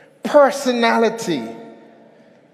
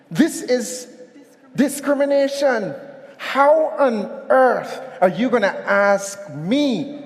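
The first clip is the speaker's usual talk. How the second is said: outraged protest. Acted. Elephant protesting climbing test.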